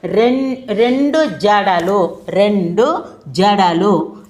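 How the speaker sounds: రెండు జడలు spoken slowly and evenly; slow dictation. Shown as a demonstration. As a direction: dictate the example slowly to the class. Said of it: "ఇక రెండోది ఉదాహరణ చూద్దామండి".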